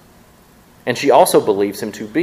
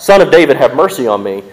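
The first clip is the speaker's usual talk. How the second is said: screamed out; 2 semitones higher, 6 dB louder than usual. Retold or imitated. Woman screaming after Jesus in the street, loud cry. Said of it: "and screamed out".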